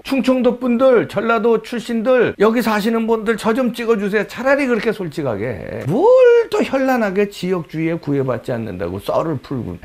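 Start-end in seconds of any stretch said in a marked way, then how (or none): 0.0-4.3 higher, mocking candid appeal; mock campaign plea. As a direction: parody her begging bluntly for votes. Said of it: "차라리 대놓고". (노골적으로 표를 구걸하는 흉내)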